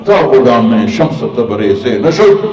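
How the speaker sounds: slow, measured Persian verse recital; poem recital. Acted. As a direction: chant the couplets slowly and gravely. (دھیمی رفتار سے فارسی اشعار کی تلاوت)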